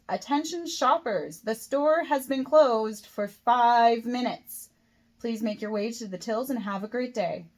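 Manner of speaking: irritated store announcement, key words stretched out; slightly angry. A narrator's reading. Kate warning late shoppers the store has closed, slightly angry. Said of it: "In a slightly angry tone".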